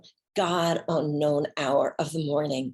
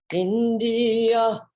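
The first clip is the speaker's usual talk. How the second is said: calling heart; 6 semitones higher, 5 dB louder, much slower than usual. Retold or imitated.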